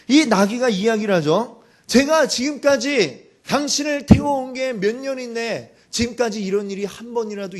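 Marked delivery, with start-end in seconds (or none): 1.9-5.8 higher, louder reproach; donkey demanding. Acted. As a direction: confront your master over the years of service. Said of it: "이렇게 따지는 거죠".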